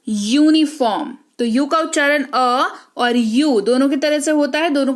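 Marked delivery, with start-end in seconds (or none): 0.1-1.2 यूनिफॉर्म opening on a long यू; U as yoo. Shown as a demonstration. Teacher showing U's other sound, यूनिफॉर्म starting on yoo. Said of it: "और यू के तौर पर".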